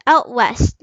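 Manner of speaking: "Out west" with a clear OUT; child corrects the heading to "Out west"; corrected. Shown as a demonstration. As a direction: fix it to OUT. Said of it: "Not our, actually".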